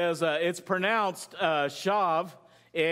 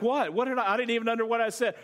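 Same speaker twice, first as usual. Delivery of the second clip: baffled protest; 3 semitones higher, faster than usual. Retold or imitated. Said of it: "I'm like".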